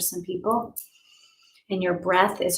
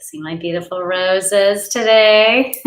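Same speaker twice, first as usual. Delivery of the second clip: delighted; 3 semitones higher, 9 dB louder, slower than usual. Real, not acted. Showing off her roses delightedly.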